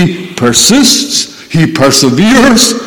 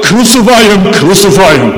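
emphatic acted chant, falling on the repeat; crowd's cry. Preacher quoting those filling Jerusalem's streets, an insistent cry. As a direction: hammer it out like a mob, short of a full shout. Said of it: "with the cry".

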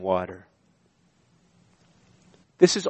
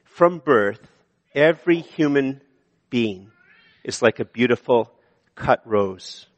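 slow measured reading. Shown as a demonstration. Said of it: "Points are just to be a help".

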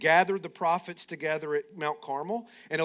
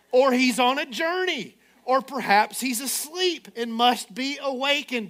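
trash talking; 5 semitones higher, 3 dB louder than usual. Retold or imitated. Elijah taunting Baal's prophets, mocking and laughing. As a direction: needle them, relish every jab. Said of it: "his best Conor McGregor, uh, uh, uh, impersonation and starts trash talking".

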